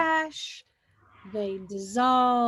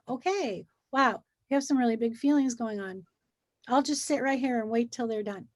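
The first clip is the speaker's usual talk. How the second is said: just let the feelings be; calm, accepting. Retold or imitated. Adult calmly waiting out a child's big feelings. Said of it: "as opposed to going".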